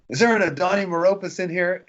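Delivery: high mock call across the room; retold yelling. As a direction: imitate the herder paging someone in a crowd. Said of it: "I didn't mean to yell at you".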